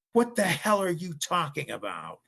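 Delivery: imitating dad's outburst, high and loud; mock scream. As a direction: burst out like a disbelieving father. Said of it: "And I hear my dad scream".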